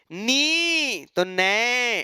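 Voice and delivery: slow model pronunciation of नए; drawn-out pronunciation. Shown as a demonstration. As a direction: stretch नए very slowly, each sound held. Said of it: "ए कर दिए".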